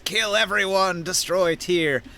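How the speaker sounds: lightly voiced menacing intent; a touch of villainous resolve, slowing at the end; raider's surface thought. Scion reading an attacker's mind, lightly voiced menace. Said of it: "their surface thought is".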